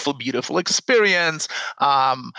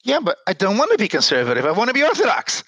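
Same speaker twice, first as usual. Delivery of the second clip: mild mock anger; 6 semitones higher, faster than usual. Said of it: "lost his temper".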